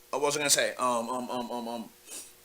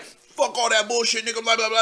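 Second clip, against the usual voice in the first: mock gangster rant, slightly higher pitch; imitating militant talk; 3 semitones higher than usual. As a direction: lightly impersonate his tough talk. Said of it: "That's how he talked".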